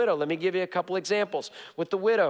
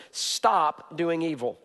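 slow emphasis; 3 semitones lower, much slower than usual. Shown as a demonstration. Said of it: "he's gonna give us is this".

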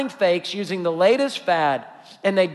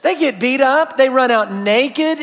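laughing; 4 semitones higher, 5 dB louder than usual. Real, not acted. Laughing retelling the story.

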